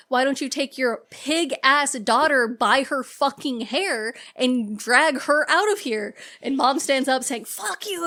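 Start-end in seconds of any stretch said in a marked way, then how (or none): 0.1-6.1 slow, emphatic imitation of an angry outburst; retold angry screaming. Receptionist snapping back at the mom, imitated angry retort. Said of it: "watches them start screaming at each other". 7.5-8.0 retold scream. Mom standing up to the receptionist, mock angry yell. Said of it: "they're screaming back and forth at each other".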